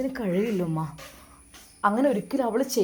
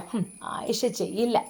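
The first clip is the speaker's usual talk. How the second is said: scornful "ഹും" then softer mocking repeat of ചെയ്യില്ല with a rise; mocking echo; 3 dB quieter than usual. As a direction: mimic his words back with contempt. Mother mocks son's words. (പരിഹാസത്തോടെ ആവർത്തിക്കുന്നു)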